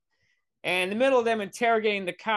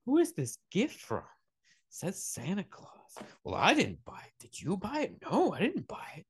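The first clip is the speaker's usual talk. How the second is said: hushed, half-whispered back-and-forth; puzzled parents; 3 semitones higher, 5 dB quieter than usual. Acted. Parents questioning each other over a gift, hushed mock bafflement. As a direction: swing the pitch up and down in suspicious undertones.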